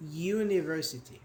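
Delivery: "University" begun with a clear "yoo"; "you" sound start. Shown as a demonstration. Teacher models the sound, "yoo-niversity". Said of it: "It's something like this".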